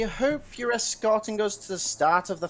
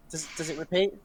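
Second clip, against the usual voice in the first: usual speaking voice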